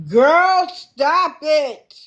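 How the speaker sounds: loud, high, drawn-out disbelief; exasperated exclamation. Real, not acted. Host reacting to someone's story, exasperated exclamation. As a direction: call it out, incredulous and high.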